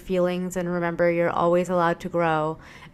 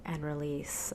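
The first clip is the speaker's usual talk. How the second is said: guided breathing; 3 dB quieter than usual. Acted. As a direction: guide them gently, softening into the release. Leads breathing exercise.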